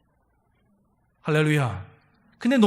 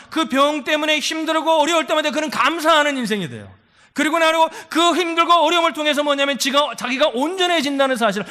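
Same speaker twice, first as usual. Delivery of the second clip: louder, higher, driving sermon climax; preaching at full force; 6 semitones higher, 6 dB louder than usual. Acted. Pastor proclaims Paul's thankful life to the congregation, loud and fervent. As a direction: proclaim it to the whole church.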